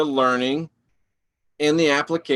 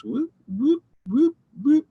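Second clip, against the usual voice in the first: squeaky whoop whoop, much higher than her talk; playful whoop; 13 semitones higher than usual. Real, not acted. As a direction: sing out a silly high whoop whoop. Playful call while distracted on stream.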